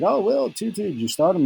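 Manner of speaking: high, eager question; retold excited shout-out to a friend; excited call. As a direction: pitch it way up, like you just saw the touchdown. Retelling asking Will excitedly.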